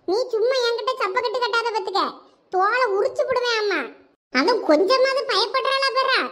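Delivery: fierce scolding from a mother; angry scolding. Acted. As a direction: tear into the daughter, threatening. Mother scolds daughter angrily.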